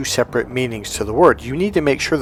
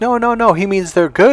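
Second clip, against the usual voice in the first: higher, quick reassuring correction; other brother explaining; 8 semitones higher, 3 dB louder than usual. Retold or imitated. Other brother correcting the mix-up, higher and quick. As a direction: set the little brother straight. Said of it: "my other brother goes".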